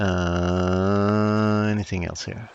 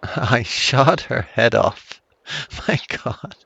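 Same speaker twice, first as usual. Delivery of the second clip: laughing through the words; giggling in disbelief; 3 semitones higher, slower than usual. Real, not acted. Laughing at own headshot.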